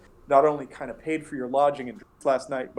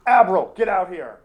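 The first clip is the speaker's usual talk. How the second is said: louder and higher, calling to the back room; 7 semitones higher, 8 dB louder than usual. Acted. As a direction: yell for her to come out. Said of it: "he's like".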